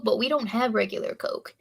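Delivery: normal talking voice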